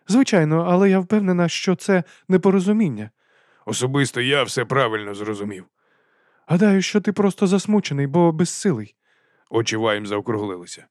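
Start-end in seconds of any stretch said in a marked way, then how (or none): 0.1-9.0 high, hearty aristocratic lady; lady's voice. A narrator's reading. Lady explains dragon stomachs to Vimes. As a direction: lift the voice for the lady.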